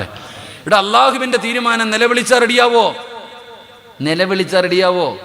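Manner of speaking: high, loud sermon challenge; preacher challenging the congregation, loud and high; fiery preaching. Real, not acted. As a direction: drive the question home to the crowd. Preaching at full force.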